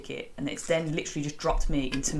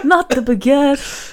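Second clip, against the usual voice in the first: slow, loud and laughing through the words; laughing mock grief over a baguette; laughing outrage; 10 semitones higher, 11 dB louder, much slower than usual. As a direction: howl it in mock despair. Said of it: "mock outrage, laughing".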